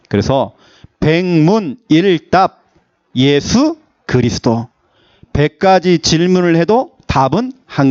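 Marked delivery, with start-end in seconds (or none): 1.0-4.7 slow, weighty "예수 그리스도" with stress on 예수; emphatic preaching. Real, not acted. Pastor driving home the one answer to his flock, slow. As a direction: lay down "예수 그리스도" slowly as the answer.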